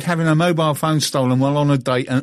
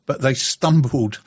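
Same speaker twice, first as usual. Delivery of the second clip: reading aloud. Acted. Reads out a listener's tweet.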